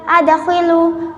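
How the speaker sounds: slow "adkhilu" with a bounced d; "adkhilu", echoing the d; qalqalah sughra. Shown as a demonstration. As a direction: let the d of "adkhilu" rebound before kh. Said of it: "harus dipatulkan suaranya".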